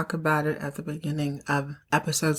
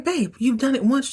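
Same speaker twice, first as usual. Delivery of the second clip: higher, breezy wife cheering him on; chirpy wife voice; 6 semitones higher than usual. Retold or imitated. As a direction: brush it off like a carefree wife. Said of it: "She's like".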